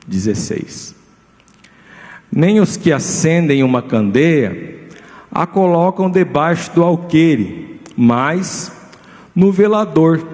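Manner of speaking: slow, measured Bible reading to the congregation; scripture reading. Acted. Preacher reading Matthew to his church, slow and solemn. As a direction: read the verses with weight, unhurried.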